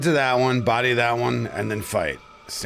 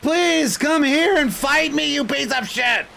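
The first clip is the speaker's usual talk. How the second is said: angry taunt; 12 semitones higher than usual. Real, not acted. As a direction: dare the enemy to come fight. Taunting boss to fight.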